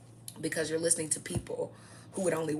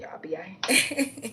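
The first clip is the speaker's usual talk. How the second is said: slow, breathy whispered aside; teasing whisper; 3 semitones higher, 4 dB louder, slower than usual. Acted. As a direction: lean in and whisper it slowly.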